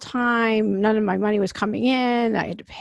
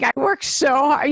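mock frustrated shout; 4 semitones higher than usual. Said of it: "I'm like".

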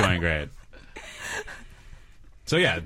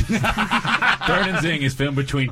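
announcer voice; 9 semitones higher, 5 dB louder, slower than usual. Acted. Announcing the show opening.

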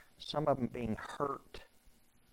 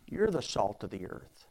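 gentle Jesus; 3 semitones lower than usual. Shown as a demonstration. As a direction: say it gently to someone broken. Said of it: "we think Jesus was probably talking like this".

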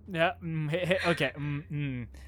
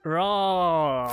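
drawn-out pretend roar; mock threatening roar; 4 dB louder than usual. Player told to be threatening, mock roar. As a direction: give a half-serious threatening roar. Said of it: "Be threatening".

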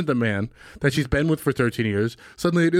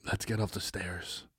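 soft and slow, a pretend request; softly; 9 semitones lower, 14 dB quieter than usual. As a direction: say it quietly, slowly. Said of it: "I'd say".

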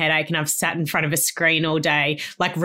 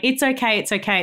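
hushing it's okay; 4 semitones higher than usual. Retold or imitated. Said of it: "you're just going".

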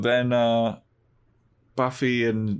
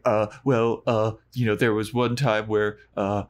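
stammering. Retold or imitated. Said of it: "he stammers".

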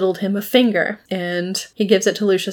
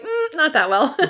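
laughing quote; 7 semitones higher than usual. Retold or imitated. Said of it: "He's like".

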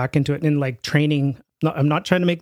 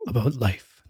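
mock intro in a famous singer's style; 3 semitones lower than usual. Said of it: "I'm not gonna bust into one of his songs".

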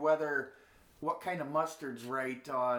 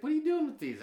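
high, sharp demanding dad; angry dad; 5 dB louder, faster than usual. Retold or imitated. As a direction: confront the kid, caught red-handed. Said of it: "Dad's like".

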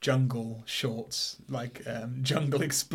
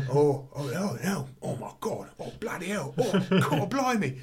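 put-on Cockney accent; 5 semitones higher than usual. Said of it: "sort of Cockney working class guards go".

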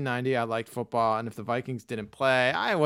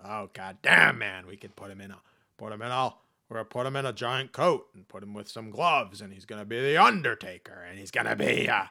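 mock-hyped booker, louder at the end; excited promoter; 7 dB louder than usual. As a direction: pitch the gimmick like a giddy exec. Imitating excited wrestling bosses.

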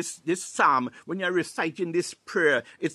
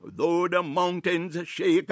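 declaimed scripture; 4 dB louder than usual. Acted. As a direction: declare each clause with conviction. Declaims psalm for listeners to repeat.

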